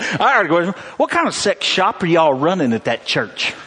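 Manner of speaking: lightly voiced indignant man on the phone; upset male caller. Upset man calls pastor with a question, mock indignant. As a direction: imitate an upset caller, mildly hammed up.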